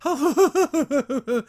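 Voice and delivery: high, drawn-out put-on laugh; mock laugh. Retelling Catra laughing at Hordak, mock laugh. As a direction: fake a long, high-pitched laugh.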